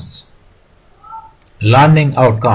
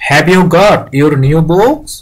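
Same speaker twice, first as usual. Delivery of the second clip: higher, very slow, stretched question; slow, raised classroom reading voice; teacher asking class; 4 semitones higher, 3 dB louder, much slower than usual. Acted. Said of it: "তারপর teacher আরো জিজ্ঞেস করলো".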